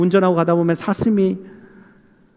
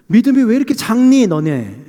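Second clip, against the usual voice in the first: higher, louder chiding question, dropping at the end; imitated scolding, raised then falling; mock reproach; 4 semitones higher, 4 dB louder than usual. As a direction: chide them like disappointed followers. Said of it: "책망하는 듯한 그런 말씀으로 느껴지지만".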